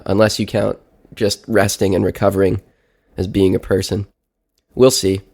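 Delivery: stuffy blocked nose, sick with a cold. Real, not acted. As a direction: talk like there's a clothespin on your nose. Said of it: "I sounded more like I sound right now, which is like I have a clothespin on my nose".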